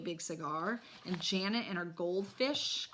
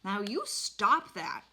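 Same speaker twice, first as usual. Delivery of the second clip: mild yell; 2 semitones higher, 5 dB louder, slower than usual. Acted. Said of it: "my father yelled at Fudge".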